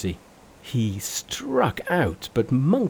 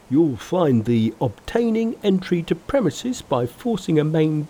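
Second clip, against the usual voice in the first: higher, louder enraged pig voice; enraged Pigsy yelling back; Pigsy's angry cry; 6 semitones higher, 4 dB louder than usual. Acted. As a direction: bluster at the intruder.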